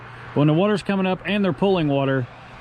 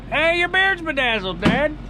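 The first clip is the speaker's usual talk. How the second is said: high, lightly voiced little girl; 10 semitones higher than usual. Dad imitating his daughters, high little girl voice. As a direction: chirp it like his young daughter. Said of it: "My little girls would be like".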